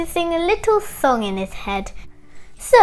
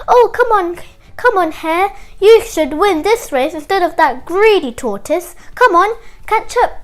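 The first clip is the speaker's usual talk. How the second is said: cheering on; 4 semitones higher, 4 dB louder than usual. Acted. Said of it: "And Hippo and Tickbird said".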